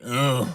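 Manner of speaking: disgusted grunt. Retold or imitated. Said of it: "like I just sucked on a lemon".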